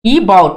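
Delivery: About said "i-BOUT", weight on bout; short light first vowel in About, then a firm "bout"; stress on second syllable. Shown as a demonstration. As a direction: lean on the second half of About. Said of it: "about पे ज्यादा आपको stress देना".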